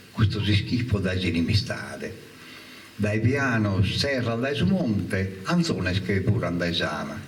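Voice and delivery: rising, impassioned poetry recital; poem recital. Acted. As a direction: declaim the war poem with feeling.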